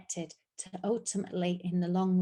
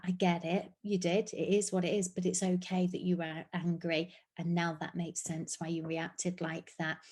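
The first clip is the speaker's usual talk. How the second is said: calm reassuring. Shown as a demonstration. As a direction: hold the feeling with them, gently. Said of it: "able to hold it with you and say".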